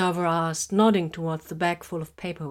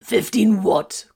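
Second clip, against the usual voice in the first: Fifteen what? said louder, slow and falling; incredulous; 3 semitones higher, 8 dB louder, much slower than usual. A narrator's reading. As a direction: stretch Fifteen in disbelief. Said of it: "Corvin wanted to know".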